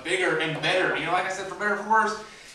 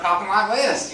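Southern accent; 3 semitones higher, 5 dB louder than usual. Shown as a demonstration. Comic showing what the English accent turned into, Southern accent. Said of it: "it's developed from the English accent".

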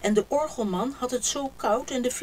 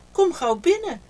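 higher, loud urgent call; 10 semitones higher, 9 dB louder than usual. A narrator's reading. Haas calling friends in from the flood, loud. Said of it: "riep Haas".

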